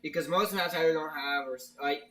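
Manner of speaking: stumbling over words; halting restarts, tripping up; stuttering. Real, not acted. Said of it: "well, I'm stuttering a lot".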